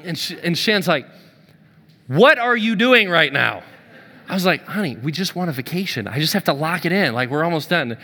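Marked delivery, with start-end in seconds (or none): 2.1-3.6 incredulous. Retold or imitated. Wife questioning husband on call. 4.7-8.0 placating. Retold or imitated. Husband placating wife.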